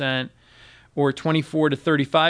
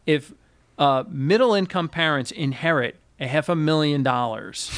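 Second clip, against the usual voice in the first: measured, emphatic restatement with a pause after "If"; deliberately slowed repeat. Shown as a demonstration. Host repeating the inheritance figure for effect, deliberate and slow. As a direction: spell it out for the listener, phrase by phrase. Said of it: "I'll say that again real slow".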